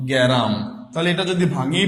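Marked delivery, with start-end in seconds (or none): 0.1-0.5 গ্যারাম said with an e sound slipped between g and r, ge-ram; vowel inserted. Shown as a demonstration. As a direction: split the cluster of গ্রাম into গ্যারাম. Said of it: "বললাম".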